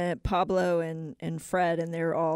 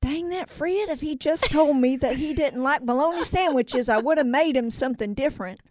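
higher-pitched put-on widow voice; hammed-up wifely lament; Fred's wife; 7 semitones higher, 4 dB louder than usual. Fred's widow at funeral lamenting sandwiches, high mock lament. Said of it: "Fred's wife is like".

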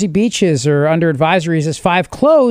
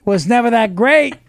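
Cuomo impression; 2 semitones higher than usual. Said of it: "my Andrew Cuomo".

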